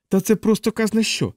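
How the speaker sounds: high-pitched cry of outrage; explode, pitch way up; outraged yell. Acted. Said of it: "загорлав капелан".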